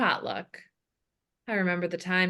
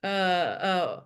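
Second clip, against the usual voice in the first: put-on older heavy-breathing man. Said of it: "The voice of an older, heavy-breathing man".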